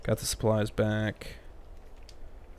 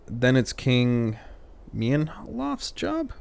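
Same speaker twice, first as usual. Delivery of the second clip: slow rising mock question; 2 semitones higher, much slower than usual.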